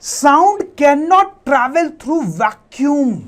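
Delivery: very slow, spaced words for note-taking; slow teacher dictation. Shown as a demonstration. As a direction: spell the sentence out slowly as you write it. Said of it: "Let me write that down".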